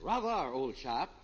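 mock upper-class British accent, lightly put on. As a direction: play the pompous English gent. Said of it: "Where did you get this British accent?".

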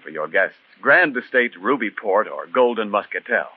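smooth radio ad read. Acted. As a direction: sell the wine, warm and measured. Reads the sponsor's wine ad.

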